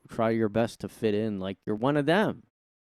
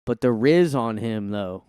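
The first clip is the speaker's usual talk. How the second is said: loud mock teen slang; 5 dB louder than usual. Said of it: "you go up there".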